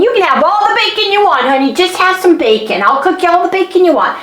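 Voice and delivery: high, quick mock-soothing husband; imitating husband soothing. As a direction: coax her like a doting husband. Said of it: "telling me it's okay".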